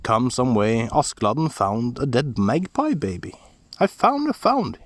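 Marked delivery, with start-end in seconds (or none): 3.8-4.8 high, loud gleeful calls; excited shout. A narrator's reading. Askeladd calling to his brothers, high excited shout. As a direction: shout it out like a thrilled boy. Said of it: "he shouted".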